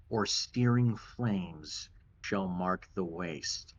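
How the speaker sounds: slow, measured rhyme reading; reading a riddle verse. Acted. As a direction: read it like an old inscription. GM reads a riddle inscription.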